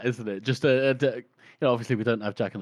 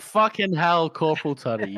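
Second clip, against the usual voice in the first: loud, higher-pitched cry of disbelief; mock outrage; 4 semitones higher, 6 dB louder than usual. Co-host scolds the corporal for taking fur, outraged. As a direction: exclaim in playful indignation. Co-host reacts to Tunney's theft.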